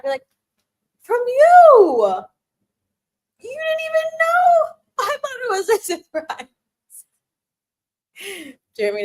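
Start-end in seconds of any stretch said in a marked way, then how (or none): 1.0-6.5 put-on cutesy girlfriend voice. Acting out reply to boyfriend.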